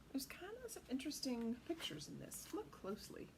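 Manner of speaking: whisper. Real, not acted. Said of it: "aside whispered".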